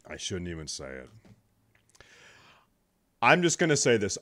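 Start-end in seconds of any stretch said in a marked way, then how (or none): 0.1-1.1 hushed. Real, not acted. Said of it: "can't even say it".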